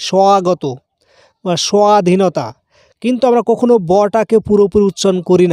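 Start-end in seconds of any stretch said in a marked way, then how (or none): 0.1-0.6 স্বাগত with a clear wa glide; স্বাগত said as wagoto. Shown as a demonstration. Teacher repeats স্বাগত with the wa sound. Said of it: "অথবা ওয়ার মতো উচ্চারণ হয়".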